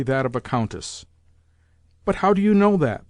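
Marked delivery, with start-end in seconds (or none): 2.1-3.1 a high, indignant comeback; sharp retort. Acted. Old lady cuts the landlord off, sharply retorting. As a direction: snap back at him like a haughty old lady. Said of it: "the old lady retorted".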